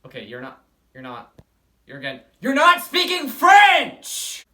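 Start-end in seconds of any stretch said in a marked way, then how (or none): 2.4-4.4 much higher and louder, fed up; teacher losing patience, shouting; exasperated yell. Real, not acted. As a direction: burst out in frustration.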